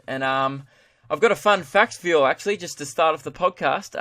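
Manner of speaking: upbeat podcast opener, pitched a little up; fun-fact segment demo. Shown as a demonstration. Host demonstrating a new podcast segment to listeners, presenter delivery. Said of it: "this is what his weekly fun facts would sound like".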